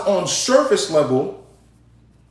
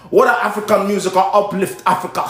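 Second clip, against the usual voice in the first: again the clumsy African accent impression; mock African accent. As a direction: repeat the quote in a poor African accent. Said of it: "you don't have to do that accent".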